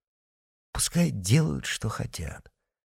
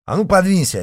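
loud, high shove-aside order; rude order; 10 semitones higher, 8 dB louder, faster than usual. A narrator's reading. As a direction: bark at him to move. Patriot pushing Mitya.

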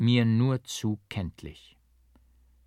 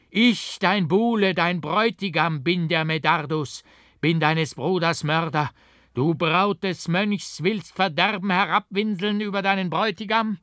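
high, loud, slowed raving of a madman; grim fury; 7 semitones higher, 5 dB louder than usual. A narrator's reading. The monk raves at Aurelie before stabbing her, loud high fury. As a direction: rant at her as a crazed murderer. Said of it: "mit grimmiger Wut".

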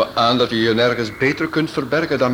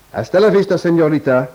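Spanish farewell; 2 semitones higher, 4 dB louder than usual. Acted. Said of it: "Wat praat jij vloeiend Spaans?".

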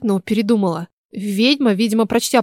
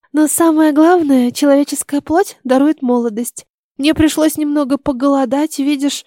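slightly higher-pitched witch, relishing her prey; a hint of a menacing old witch; lightly voiced sinister witch; 5 semitones higher than usual. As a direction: gloat lightly as a storybook witch.

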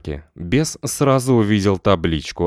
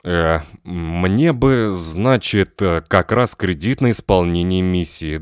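slow, halting, nervous request; nervous hesitation. Acted. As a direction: stumble over the words, hiding the trembling. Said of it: "с трудом унял внутреннюю дрожь". (нервно, запинаясь)

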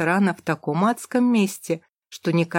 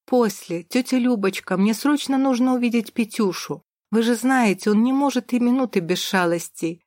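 calling out while running; 4 semitones higher than usual. Acted. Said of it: "крикнула я на бегу".

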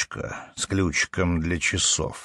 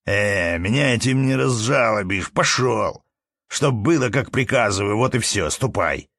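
raised, stamping command to get out; angry dismissal; 3 semitones higher than usual. Acted. Manager ordering the peasant away, angry. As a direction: shoo him off harshly.

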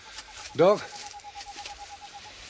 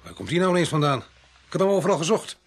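louder, higher exasperated grumble; irritated; 4 semitones higher, 5 dB louder than usual. Acted. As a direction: complain loudly about the missing man. Sudden arrival of sought inspector. (geërgerd, met stemverheffing)

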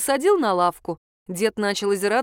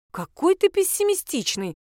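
поморщившись; 11 semitones higher than usual. A narrator's reading. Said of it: "поморщилась я".

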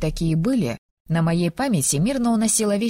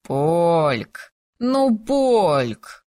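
calling to wake; much slower than usual. Acted. Tamir calling to wake her.

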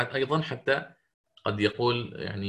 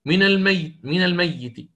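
الميت repeated, first loud and higher; stress on الميت; 5 semitones higher, 4 dB louder than usual. Shown as a demonstration. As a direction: lean hard on من الميت twice. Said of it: "على خلاف".

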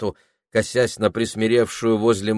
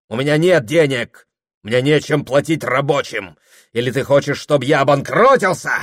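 higher, louder barked commands; domineering orders; 6 semitones higher, 6 dB louder than usual. A narrator's reading. Husband demanding his wife's million, loud domineering orders. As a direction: order her to hand over everything.

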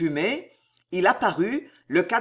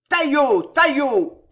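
high, loud whoop of a bloodthirsty pack; frenzied high yell; howled hunting cry; 7 semitones higher, 7 dB louder, slower than usual. A narrator's reading. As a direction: howl it like hunters setting on prey. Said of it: "hurlèrent les démons".

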